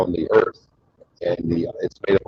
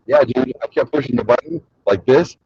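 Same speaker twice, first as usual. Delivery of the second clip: meathead; 4 semitones higher than usual. Retold or imitated. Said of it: "there's some dipshit meathead comes over".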